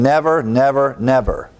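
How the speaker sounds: "never" repeated three times, the last one falling; emphatic never. Shown as a demonstration. Stressing the promise to believers with "never" repeated. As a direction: drive home each "never". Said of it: "It would be almost like saying".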